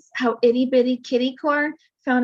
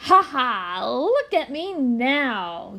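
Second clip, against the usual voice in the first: yell; much slower than usual. Acted. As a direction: call out proudly, ha ha. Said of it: "yells Kitty".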